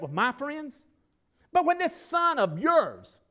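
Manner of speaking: loud, high, aggrieved complaint, slowed and hammered out; the wronged son who has had enough; resentful older son. Acted. Older brother shouting his grievance at his father, loud and bitter. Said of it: "But he answered his father".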